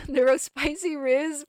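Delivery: high, loud and slow, savouring "Neurospicy Riz"; mock-proud drawn-out "Neurospicy Riz"; hammed-up nickname. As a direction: stretch out "Neurospicy Riz" like a gleeful chant. Gushing, coining a nickname.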